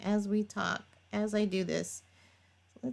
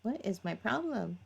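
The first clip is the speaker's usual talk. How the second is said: laughing at herself; 3 dB quieter than usual. Real, not acted. Laughs at own fumbling.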